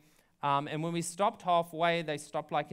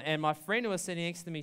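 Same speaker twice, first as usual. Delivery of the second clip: ordinary talk, nothing marked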